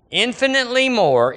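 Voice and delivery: infinitely lifted high; soaring proclamation. Acted. Preacher voicing God's promise, lifted high. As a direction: lift the line up in triumph.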